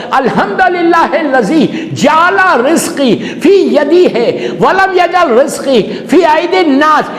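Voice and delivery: drawn-out, deliberate prayer recitation; slow Arabic recitation. Acted. Preacher reciting the Prophet's gratitude prayer, slow and swelling.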